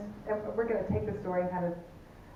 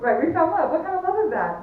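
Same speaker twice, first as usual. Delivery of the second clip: mock dramatic; 9 semitones higher, 5 dB louder than usual. Mocking the song title.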